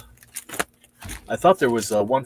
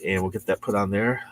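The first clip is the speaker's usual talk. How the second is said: ordinary delivery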